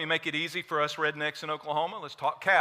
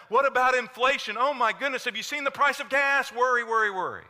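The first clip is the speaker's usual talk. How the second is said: rapid-fire fretting, pitched up; mock anxious worrying; 3 semitones higher than usual. Preacher voices the congregation's worries about jobs, cancer and gas, mock frantic. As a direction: pile up the worries in a hurried, higher voice.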